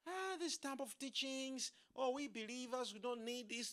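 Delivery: a light send-up of smug believers; mock dismissive believers. Preacher imitating believers who dismiss the teaching, mock scoff. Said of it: "people who go like".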